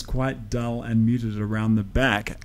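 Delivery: dull, muted voice from behind the mic; muffled off-axis mic. Shown as a demonstration. Teacher shows how the voice goes dull behind a cardioid mic. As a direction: talk from round the back of the microphone. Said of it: "you can hear how all the presence goes away".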